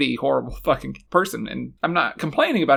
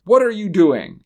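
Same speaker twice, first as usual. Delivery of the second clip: stilted delivery; 3 semitones higher, 5 dB louder than usual. Retold or imitated. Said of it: "In the same, like, weird way".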